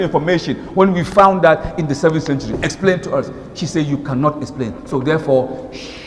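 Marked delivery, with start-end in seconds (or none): 3.9-6.0 quiet, hushed, waving the question away; mock hushed dismissal. To a questioner, mock hushed dismissal. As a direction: shush them and end the question.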